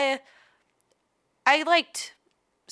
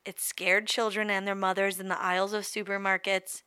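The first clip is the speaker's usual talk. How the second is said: storybook narration; 2 semitones lower than usual. Acted. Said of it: "I'm gonna read to you like a story".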